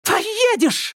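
very high shriek. Acted. Angelika shrieks at Irma, very high. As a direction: shriek it like a spoilt sister. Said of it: "взвизгнула Анжелика".

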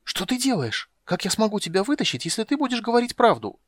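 high, mock-secret aside; loud stage whisper. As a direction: whisper loud enough for all. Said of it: "прошептал так громко".

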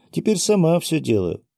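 put-on high, self-defensive little girl; pouting. A narrator's reading. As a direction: insist with a childish pout. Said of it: "надулась девочка". (обиженно, по-детски)

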